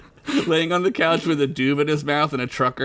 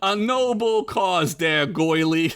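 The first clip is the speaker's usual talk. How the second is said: put-on Italian accent; 2 semitones higher, slower than usual. Joey replying to the bake sale, Italian accent. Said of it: "I gotta do an Italian accent now".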